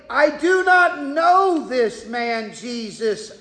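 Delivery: mildly heated denial, pitch climbing; retold protest, insistent and rising; adamant denial. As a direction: deny it firmly, as if acting out an indignant man. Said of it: "to adamantly say".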